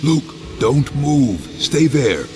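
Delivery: loud, high, anxious commands; panicked rescue call; urgent shout. Acted. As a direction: shout instructions to someone in danger. Calling to endangered brother.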